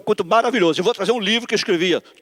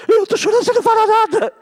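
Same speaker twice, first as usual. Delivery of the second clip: high, loud mock wailing; acted crying complaint; 14 semitones higher, 6 dB louder, faster than usual. Preacher as crying wife reproaching silent husband, hammed-up wail. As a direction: exaggerate a tearful wife's protest. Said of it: "você vê ela chorando".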